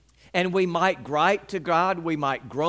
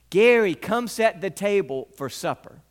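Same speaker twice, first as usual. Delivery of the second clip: mom's last call to supper, louder and firm; loud final call; 4 semitones higher, 4 dB louder than usual. Retold or imitated. Mom calls her son a final time, loudly and pointedly. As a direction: she makes sure he heard it this time. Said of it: "my mother said loudly enough".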